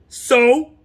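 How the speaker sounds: high, loud snippy "So?"; cheeky comeback; defiant retort. Retold or imitated. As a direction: fire it back at him. Snapping back at husband.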